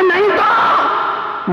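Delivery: slow, high stretched no; drawn-out denial. Retold or imitated. Merchant denying he sleeps, slow and drawn out. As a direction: drag it out sleepily.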